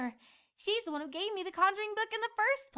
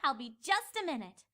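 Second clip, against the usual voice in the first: sly fib; 5 semitones lower than usual. Acted. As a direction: pretend sweetly to be honest. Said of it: "she lied".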